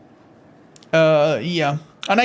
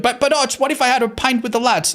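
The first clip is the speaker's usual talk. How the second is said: higher, pleading mock voice of a viewer; whiny viewer imitation; 6 semitones higher than usual. Streamer imitating viewers asking if a pint is allowed, in a higher pleading voice. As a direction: lightly play a viewer begging for a loophole. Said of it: "people are gonna be like".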